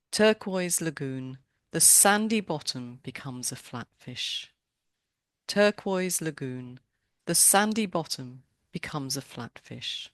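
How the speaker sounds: slow, measured haiku recital; poetry reading. Acted. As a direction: read the poem aloud, lingering on the opening. Reads a haiku twice.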